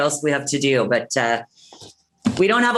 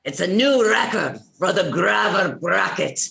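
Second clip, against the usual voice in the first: put-on Irish-accented announcer call. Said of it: "'cause it's Irish".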